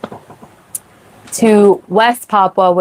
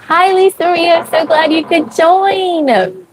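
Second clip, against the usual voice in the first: high excited greeting; 10 semitones higher than usual. Real, not acted. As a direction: sing out the welcome up high. Greeting a viewer by name.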